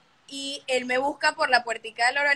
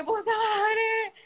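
high, drawn-out slow curse; frightened curse; 10 semitones higher, much slower than usual. Retold or imitated. Cursing as the crow attacks, slow and high.

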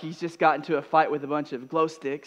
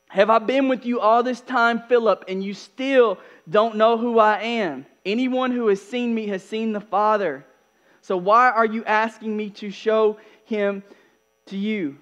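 raised, higher-pitched challenge; challenging rebuke; 6 semitones higher, 5 dB louder than usual. Acted. Jesus challenges Philip over asking to see the Father, challenging. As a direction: press the question with force and volume.

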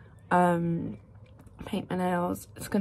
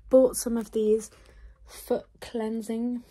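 breathless from walking; out of breath; 2 semitones higher, 3 dB louder, slower than usual. Real, not acted. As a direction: talk while short of breath. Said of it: "Sorry, I'm out of breath".

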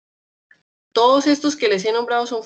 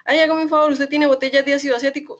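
retold polite request; 6 semitones higher, 4 dB louder, faster than usual. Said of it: "yo le dije a la señora".

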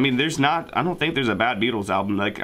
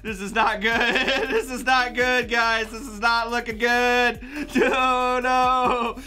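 raised, panicky fretting; panicked character voice; 10 semitones higher, slower than usual. Acted. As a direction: fret in a higher voice.

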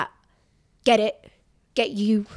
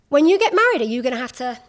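mock northern accent; 3 semitones higher, 5 dB louder, faster than usual. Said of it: "she didn't have a northern accent".

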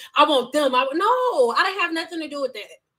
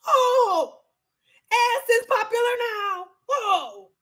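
mocking exclamation; 9 semitones higher, slower than usual. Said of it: "I'm like".

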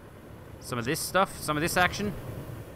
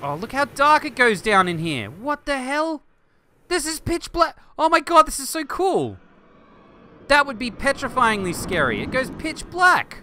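much higher, louder delight; thrilled squeal; 12 semitones higher, 7 dB louder than usual. Real, not acted. Showing viewers the dark volcano, high thrilled squeal. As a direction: squeal at how dark it gets.

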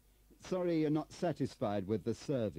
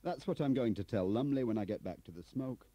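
high, loud, building tirade; furious accusation; 10 semitones higher, 7 dB louder than usual. Acted. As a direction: hurl the accusation at your superior. Turner flings accusations at Bradfield.

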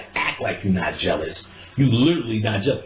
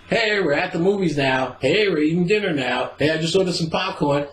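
imitating girlfriend; 7 semitones higher than usual. Voicing girlfriend checking in.

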